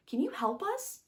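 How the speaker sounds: put-on high, bright little boy voice; a seven-year-old boy introducing himself eagerly; young boy voice. A narrator's reading. Young boy asking a stranger for help, high little boy voice.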